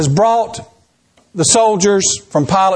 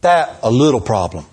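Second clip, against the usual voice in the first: Spanish preacher; 8 semitones lower than usual. Retold or imitated. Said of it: "Or he'll say".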